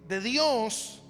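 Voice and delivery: ordinary talk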